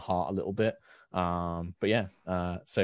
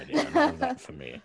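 high repeat. Acted. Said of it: "Ah, court flattery".

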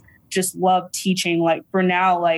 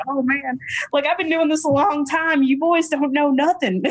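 put-on Texas Southern accent; 7 semitones higher than usual. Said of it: "my Texas Southern accent comes out too".

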